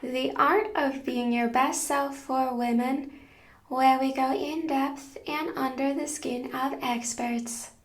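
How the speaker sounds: measured host read, evenly paced phrases; scripted podcast intro. Acted. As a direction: read a prepared guest introduction to listeners.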